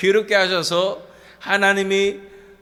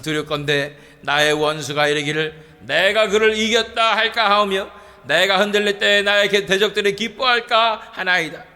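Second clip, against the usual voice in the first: scripture reading. Shown as a demonstration. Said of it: "사 절 말씀".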